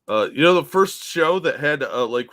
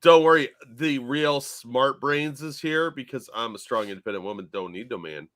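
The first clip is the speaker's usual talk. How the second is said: a hint of sarcastic heroine; mock princess. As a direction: send up a strong-woman speech, fading off. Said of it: "the princess is".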